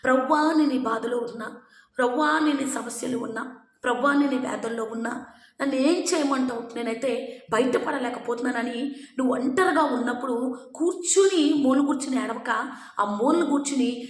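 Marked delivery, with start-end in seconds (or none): 0.0-9.0 crying out to God. Retold or imitated. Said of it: "ఏడుస్తూ దేవునికి మొరపెట్టాలి".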